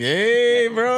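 high, loud playful cheer; a whoop of delight; excited cheer. Real, not acted. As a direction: cheer him on, half teasing. Host cheers guest's breakdancing confession.

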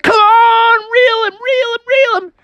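high, loud urging cheer; cheering shout. Acted. Frog urging his friend to reel, high loud shout. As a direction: yell him on like a coach. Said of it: "Frog was like".

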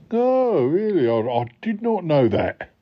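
high drawn-out "oh", falling away; exaggerated surprise. Hearing where the word pilot comes from, mock surprise. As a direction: act amazed at a dry fact. Feigns amazement at dry fact.

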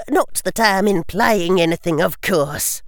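put-on high, pointed old lady voice; sharp disapproving grandmother; stern old witch. A narrator's reading. Augusta's sly aside.

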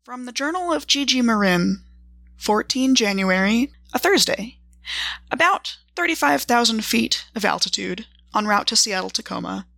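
measured journal narration with deliberate pauses between entries; journal reading. Acted. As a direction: read your travel diary aloud, item by item, with dry understatement. Reads out her character's journal.

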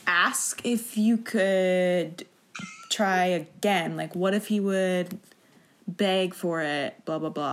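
drawn-out, hesitant question; a slow, hesitant plea put to the actress; slow halting speaker. Retold or imitated. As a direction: stall over every word like a nervous suitor. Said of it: "Very slow speaker".

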